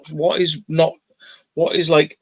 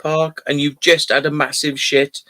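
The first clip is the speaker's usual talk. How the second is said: incredulous scolding; 4 semitones higher than usual. Retold or imitated. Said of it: "I was just like".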